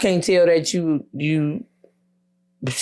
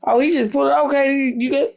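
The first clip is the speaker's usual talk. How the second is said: mock surprise; 9 semitones higher than usual. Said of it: "I'm like, oh".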